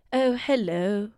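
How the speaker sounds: slow, put-on royal British accent; Queen. Shown as a demonstration. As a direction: greet in a posh British accent. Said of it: "Yeah, like the Queen".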